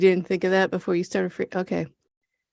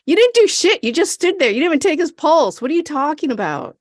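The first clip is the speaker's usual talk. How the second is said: mock outrage; 7 semitones higher, faster than usual. Real, not acted. Yelling at Ryan and Mickey for doing nothing, much higher. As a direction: scold the screen in disbelief. Ranting at characters.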